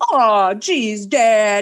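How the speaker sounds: mock-sarcastic, creepy wholesome 1950s sitcom kid voice. Describing how a man's father talks back to him, mock-sarcastic 1950s sitcom kid voice. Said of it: "sarcastic, like 1950s sitcom kid voice".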